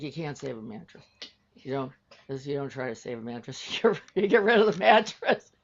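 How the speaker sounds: rising to a loud, laughing outburst by the end; exasperated insistence. Retold or imitated. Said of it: "So I have to carry an Adrian, like".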